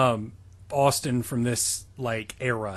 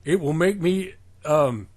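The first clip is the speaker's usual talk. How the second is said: mock villain; 3 semitones higher than usual. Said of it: "It's like".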